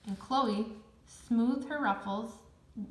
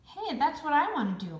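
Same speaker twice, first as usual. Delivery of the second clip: higher, louder protesting call; 7 semitones higher, 8 dB louder than usual. A narrator's reading. Boy objecting from his chair across the room, loud call-out. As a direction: burst out with it like an eager kid. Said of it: "Max called out from his chair".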